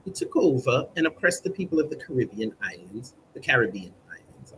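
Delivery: put-on Caribbean said with an American accent, stressed on bean; American accent slip. Reading the statement, slipping into an American accent. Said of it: "I sound like an American again".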